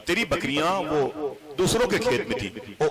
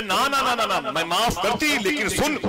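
scolding aunt; 9 semitones higher than usual. Acted. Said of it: "बोले".

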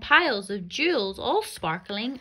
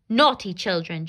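cross stepmother; 7 dB louder than usual. Acted. Cross stepmother scolds children.

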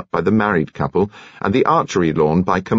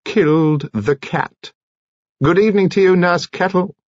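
high, theatrical, indignant dismissal; high-voiced huffy farewell; intemperate retort; 10 semitones higher than usual. A narrator's reading. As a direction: declaim it pitched well up. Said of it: "countered with a look of real intemperance".

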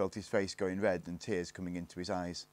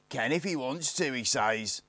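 higher, exclaimed disbelief; incredulous; 5 semitones higher, 5 dB louder than usual. A narrator's reading. Lone Ranger repeats Barney's words to the gang, incredulous. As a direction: repeat it as if you can't believe your ears. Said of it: "as if he couldn't believe his ears".

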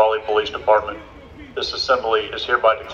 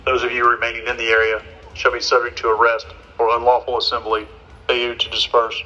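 blasting sound cannon. Real, not acted. Police dispersal order repeated.

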